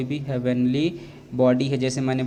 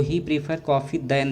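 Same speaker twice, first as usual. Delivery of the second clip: slow; much slower than usual. Shown as a demonstration. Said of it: "गलत है".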